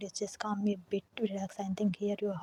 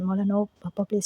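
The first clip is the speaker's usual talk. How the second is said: crying loudly; 5 dB louder than usual. Acted. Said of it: "started crying more loudly".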